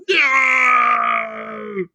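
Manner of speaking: sudden high shout from above; scream. Acted. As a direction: scream it out in alarm. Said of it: "a voice from above screams".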